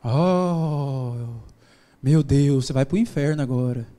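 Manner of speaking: low, drawn-out mock horror; mock scandalized gasp. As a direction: play a churchgoer appalled by bad language. Mimics scandalized listeners at his prayer.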